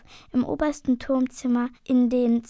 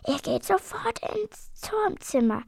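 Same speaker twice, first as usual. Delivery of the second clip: stern innkeeper, higher; commanding; 7 semitones higher than usual. A narrator's reading. Der Wirt befiehlt den Drachen, streng befehlend. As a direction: order them upstairs. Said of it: "befiehlt der Wirt".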